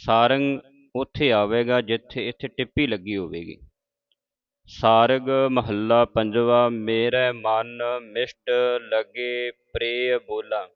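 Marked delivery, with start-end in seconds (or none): 4.7-10.7 slow, measured chanting of the hymn line; slow recitation. Shown as a demonstration. Teacher reciting scripture slowly for the congregation. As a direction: recite it slowly and carefully for learners. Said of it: "ਹੁਣ ਸੰਗਤ ਜੀ ਧਿਆਨ ਰੱਖਣਾ".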